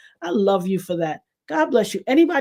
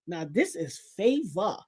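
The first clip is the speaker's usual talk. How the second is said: hushed awe; 4 semitones lower, 7 dB quieter than usual. Retold or imitated. Awed aside to Carla.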